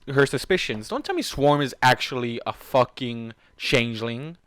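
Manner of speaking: ordinary talk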